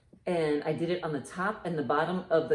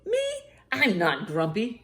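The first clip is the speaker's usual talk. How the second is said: grumpy denial; 4 semitones higher than usual. Acted. Grumpy monkey denies it.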